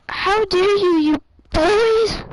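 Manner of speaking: hammed-up crying scream. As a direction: scream it at the bullies through tears. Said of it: "She cries and screams".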